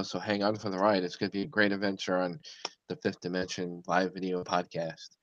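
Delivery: upbeat announcer pitch, lightly done; infomercial voice. Acted. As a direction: sell it like a TV ad. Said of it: "That sounded like a real infomercial".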